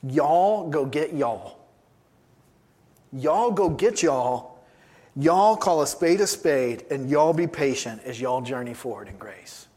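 slow, drawn-out Southern "y'all"; lightly put-on Southern accent for an apostle; Southern Roman accent. Preacher playing Paul to his church, mock Southern accent. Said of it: "in his Southern Roman accent".

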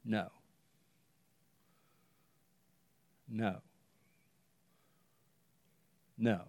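very soft, slow, spaced-out no's; God's short answer. Retold or imitated. God answering Paul's prayer, a soft firm refusal. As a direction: let each no drop quietly, final. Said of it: "And God's answer was".

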